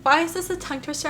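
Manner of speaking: laughing at her own stumbles. Real, not acted. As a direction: rush it out, amused at herself. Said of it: "I'm crying".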